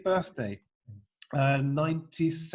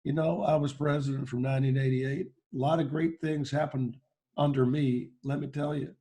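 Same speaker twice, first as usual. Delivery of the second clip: Bill Clinton impression. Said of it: "after him came Bill Clinton".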